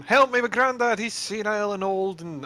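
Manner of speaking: acted shout, easing off by the end; shouting for help. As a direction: call out to everyone for help. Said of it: "I was gonna shout to everyone".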